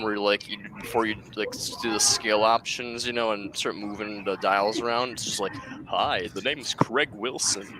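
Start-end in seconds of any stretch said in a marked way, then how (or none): 5.9-7.7 game NPC voice. Retold or imitated. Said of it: "We're the N P Cs".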